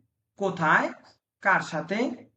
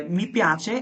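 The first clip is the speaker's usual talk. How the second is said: very slow model phrase. Shown as a demonstration. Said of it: "teacher stretches model phrase".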